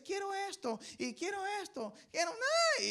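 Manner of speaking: put-on high whiny child voice. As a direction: mimic a bratty child demanding. Niño berrinche en supermercado. (niño caprichoso, voz aguda y chillona)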